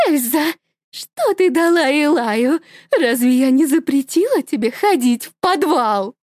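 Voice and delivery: mother scolding daughter madly; crazed mother. Acted. (с безумным смешком)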